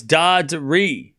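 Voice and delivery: Dardiri said slowly, stretched to a long final REE; corrected pronunciation. Shown as a demonstration. Correcting chat on a player's name, careful pronunciation. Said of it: "No, it's".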